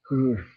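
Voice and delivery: breathless puff of air; winded exhale. Real, not acted. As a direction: blow out air, still winded. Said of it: "got me out of breath".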